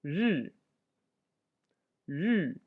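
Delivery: "ri" said with a sharp falling fourth tone. Shown as a demonstration. Teacher modeling a difficult sound, sharp falling tone. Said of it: "Fourth tone".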